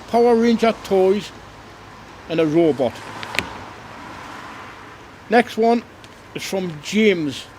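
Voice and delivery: cheery Father Christmas reading letters; Santa voice. Acted. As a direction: read the kids' letters as a jolly Santa. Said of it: "This is Santa back again".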